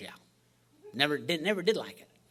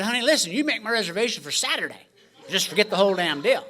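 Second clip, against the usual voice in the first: mock exasperated; 5 semitones higher, 7 dB louder than usual. Exasperated reply to saleswoman.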